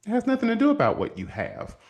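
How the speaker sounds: emphatic inner plea; inner exasperation. Retold or imitated. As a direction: argue it in your head. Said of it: "in my head too".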